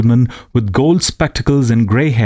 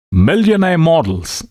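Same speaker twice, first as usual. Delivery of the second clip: witty friend; 8 semitones higher than usual. Acted. Alan's closing quip.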